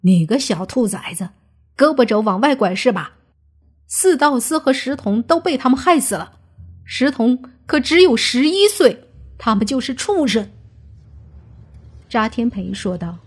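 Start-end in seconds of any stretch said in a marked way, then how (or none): 0.0-10.5 scolding that climbs in pitch; angry cursing. Acted. Villager cursing the one shielding outsiders, angry. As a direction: start gruffly, build to higher outrage. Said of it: "一人骂道".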